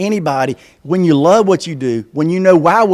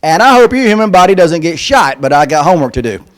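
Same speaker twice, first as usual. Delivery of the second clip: put-on higher, louder earnest kid reading; kid's voice; 4 semitones higher, 4 dB louder than usual. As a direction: deliver it with innocent kid sincerity. Reading Cody's letter.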